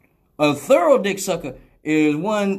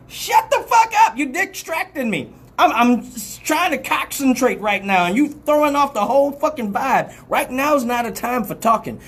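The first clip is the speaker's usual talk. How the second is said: annoyed shout; 6 semitones higher than usual. Acted. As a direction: snap at them to shut up. Snapping at a talking partner.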